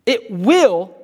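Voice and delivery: "will" leaned on firmly as a promise; stress on will. Shown as a demonstration. Preacher pointing out the promise in the verse, stress on "will". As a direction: hit the word "will" and stop on it. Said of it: "that word will".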